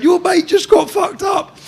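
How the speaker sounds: high, loud, drawn-out taunting yell; retold screaming. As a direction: re-enact a gloating shout across the wing. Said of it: "screaming at the top of my head".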